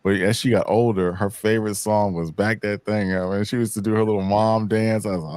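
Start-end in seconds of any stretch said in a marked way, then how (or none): none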